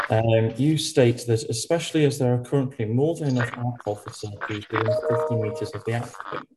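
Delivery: audio breaking up on a bad call; choppy, garbled video call voice; glitchy robotic call. Real, not acted. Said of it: "your audio is breaking up for me".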